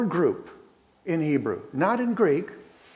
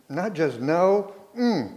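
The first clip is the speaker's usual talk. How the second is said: strong, decisive no, louder on "no way"; emphatic refusal; 3 semitones higher, 4 dB louder, slower than usual. Shown as a demonstration. Preacher renders Paul's denial in strong words, emphatic. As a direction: land each no firmly, almost loud. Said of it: "emphatic negation ... almost loud and decisive".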